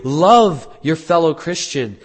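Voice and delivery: loud, firm exhortation; emphatic command. Acted. Preacher voicing God to the congregation, emphatic command.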